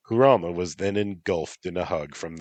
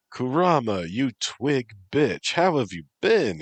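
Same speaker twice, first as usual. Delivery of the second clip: brash greeting; 7 semitones higher, 4 dB louder than usual. Acted. Boisterous cat king greeting.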